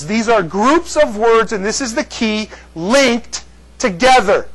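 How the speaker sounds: slow, deliberate teaching delivery; slow emphasis. Shown as a demonstration. Teacher slowing down to show the class a key point, slow and deliberate. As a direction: spell it out slowly for the class. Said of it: "Now watch this".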